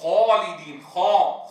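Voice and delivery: خا with rounded lips, alif coloured toward oo; خا said with pursed lips; alif leaning to waw. Shown as a demonstration. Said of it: "خلط صوتها بشيء من صوت الواو، فيقول".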